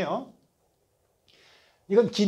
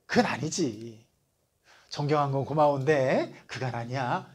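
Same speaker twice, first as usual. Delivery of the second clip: embarrassed refusal; 3 semitones lower than usual. Retold or imitated. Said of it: "제가 정상적인 사람이라면 어떻게 해야".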